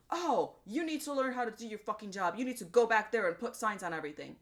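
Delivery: a hint of the whiny customer repeating himself; pissy customer. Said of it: "getting all loudmouth with her and getting all pissy".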